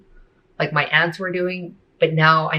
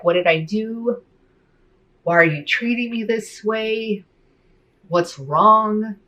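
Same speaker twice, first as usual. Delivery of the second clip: higher, pained questions of a rejected father; hurt dad pleading; 6 semitones higher, slower than usual. Retold or imitated.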